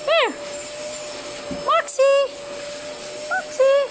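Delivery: calling out. Real, not acted. Calling the dog.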